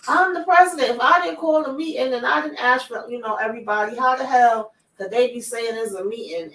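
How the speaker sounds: put-on high, near-tears tantrum like a little kid; whiny tantrum. Recapper mimics the president insisting he called no meeting, in a high tantrum whine. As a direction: squeal it like a kid about to cry. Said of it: "like a little kid that's having a temper tantrum".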